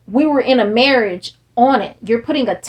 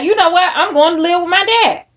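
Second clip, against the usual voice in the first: high, excited burst of resolve; a mild mock outburst, raised and louder; sudden decision; 6 semitones higher, 3 dB louder, faster than usual. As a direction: blurt it out, suddenly decided. Imagined sudden change of heart.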